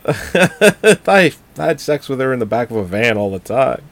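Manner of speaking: lightly voiced pervy killer; half-mock sleazy killer voice; slasher killer. Voicing the killer character.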